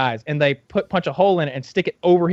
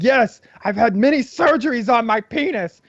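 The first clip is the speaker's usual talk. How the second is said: dim-witted Bobo voice; 7 semitones higher than usual. Retold or imitated. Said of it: "in his, like, fucked up in the head way".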